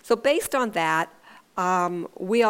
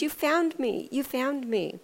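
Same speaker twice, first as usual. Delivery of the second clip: retold gleeful scream; 5 semitones higher than usual. Little boy revealed under the covers, imitated excited squeal. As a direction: imitate a gleeful child, held back in volume. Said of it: "And he screamed".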